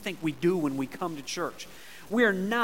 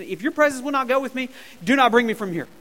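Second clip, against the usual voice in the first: desperate Moses; 5 semitones higher, 7 dB louder, faster than usual. Acted. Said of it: "he says it again".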